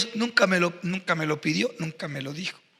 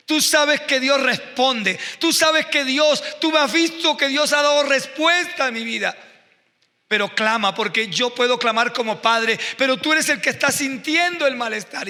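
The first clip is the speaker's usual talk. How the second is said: urgent preaching plea; 4 semitones higher than usual. Retold or imitated. Father urging sick son to pray.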